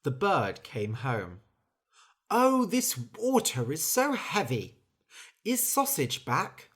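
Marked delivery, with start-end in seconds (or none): 2.3-6.7 weary strain. Acted. Bird tired carrying water.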